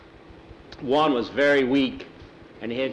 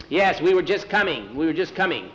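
higher-pitched, placating protest; hasty excuse; 4 semitones higher than usual. Acted. Boys answering Pedro's scolding, placating. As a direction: answer the boss defensively, voice lifted.

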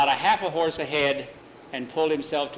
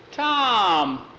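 high, louder indignant "Tom!"; protesting call; 7 semitones higher, 4 dB louder than usual. Acted. Jackie protesting the order to walk the horses, sharp indignant call. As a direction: object sharply to the chore.

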